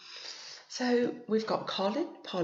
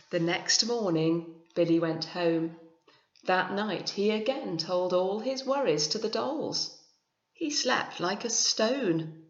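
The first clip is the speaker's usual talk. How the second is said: story narration; 3 dB louder than usual. A narrator's reading. Reads picture book aloud.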